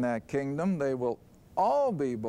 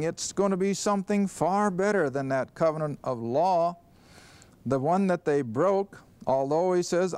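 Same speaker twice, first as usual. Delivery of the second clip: ordinary talk, nothing marked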